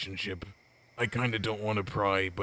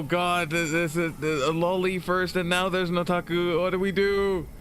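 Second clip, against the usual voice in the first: high squeaky character voice; 10 semitones higher, slower than usual. Acted. Squealing character voice in game dialogue.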